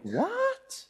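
very high, rising disbelieving "What?"; squeaked mock astonishment; incredulous what. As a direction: act out a shocked double-take. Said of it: "exactly the, the same tone of voice".

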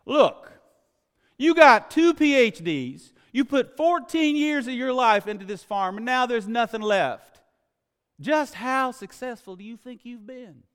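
high, loud exasperated reporter. Retold or imitated. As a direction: confront him in exasperation, ending slow and pointed. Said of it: "Finally, out of exasperation, the reporter just said".

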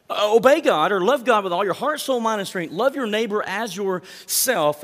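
preacher driving home both commands, loud. Acted. Preaching the two commands forcefully.

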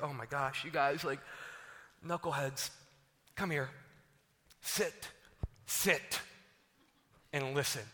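weary exasperation. Acted. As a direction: rein in squabbling followers, low and patient. Jesus exasperated with squabbling disciples.

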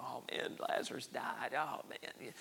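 hushed, mock-mournful lament; mock weeping. Preacher imagines Jesus grieving for Lazarus, softly mock-weeping. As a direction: lament softly, as if stopping to weep. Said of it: "stop and weep and go".

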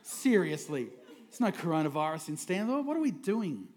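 mock complaint under the breath; imitating a grumpy churchgoer moaning about the seating; grumbling churchgoer. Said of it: "feeling that towards me".

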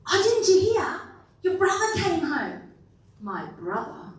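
high, fast, laughing invitation; high, bubbly mock servant inviting him in; excited servant. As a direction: gush about the party like a giddy servant.

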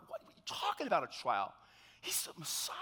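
acted incredulous protest with jumping pitch; mock-stunned objection, pitch leaping about; incredulous disbelief. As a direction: protest as if it cannot be true. Acts out disciples' disbelief at rumors.

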